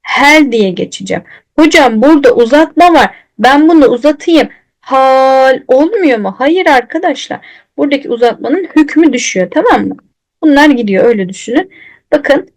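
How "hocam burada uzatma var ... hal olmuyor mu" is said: a hint of a questioning student; mock student asking, a bit faster; imitating a student. Teacher imitating a student asking about lengthening. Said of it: "bir öğrencim".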